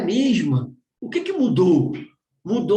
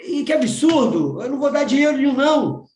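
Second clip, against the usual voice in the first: higher, firm, exasperated; indignant refusal; 4 semitones higher than usual. Retold or imitated. Father refusing to send his daughter money, indignant.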